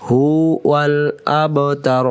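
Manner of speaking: ইন্না শানিআকা, drawn out; slow recitation. Shown as a demonstration. Teacher reciting the verse slowly. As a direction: stretch every syllable. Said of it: "recited repetition".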